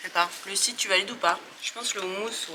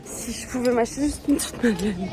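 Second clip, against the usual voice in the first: while running. Real, not acted. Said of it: "je suis en train de courir".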